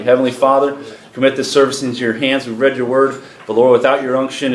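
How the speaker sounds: earnest, flowing spoken prayer; public prayer. Real, not acted. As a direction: pray aloud on behalf of the congregation. Leads the congregation in prayer.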